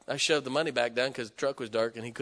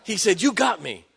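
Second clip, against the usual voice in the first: loud, high, laughing through the words; a caught-out pastor laughing it off; laughing admission; 5 semitones higher, 8 dB louder than usual. Retold or imitated.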